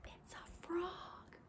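unvoiced slow whisper. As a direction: share it like a secret. Secret reveal to children.

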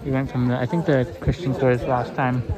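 talking with mouth full of bread; words round a bite of bread. Real, not acted. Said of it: "I got the bread still in my mouth".

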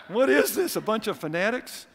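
high, loud, mocking; scoffing guests. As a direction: sneer at the believers. Guests' reaction, voiced.

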